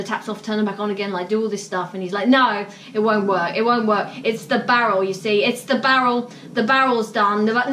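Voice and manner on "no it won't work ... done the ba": firm, louder imitation of a know-it-all; insistent customer. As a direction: hammer home that the barrel is finished. Retelling the pushy customer's insistence.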